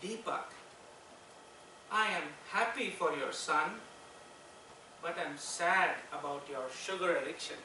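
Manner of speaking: lightly voiced mother, gently chiding her son. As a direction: scold your son softly, with pauses. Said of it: "And she said".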